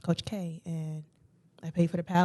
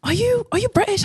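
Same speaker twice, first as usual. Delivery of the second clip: much higher, louder mock lady voice; astonished lady; 5 dB louder than usual. Lady at the fashion show questioning her accent, imitated astonishment. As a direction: imitate a stranger's high-pitched questioning. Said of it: "the lady was like".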